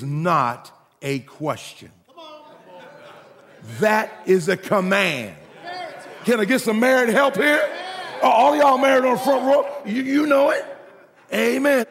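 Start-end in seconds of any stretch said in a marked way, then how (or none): 6.2-11.9 calling out to the congregation. Real, not acted. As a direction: rouse the married folks to answer back. Calls on the married congregation.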